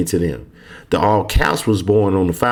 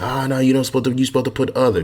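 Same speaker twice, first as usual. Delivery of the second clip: imitating an objector; 5 semitones higher, much faster than usual. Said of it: "Some people may say".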